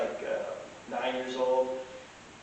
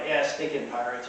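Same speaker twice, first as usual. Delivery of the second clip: under his breath; 2 semitones lower, 5 dB quieter than usual. Retold or imitated. Passer-by grumbling about pirates, under his breath. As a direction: say it as a muted aside. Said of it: "under his breath he goes".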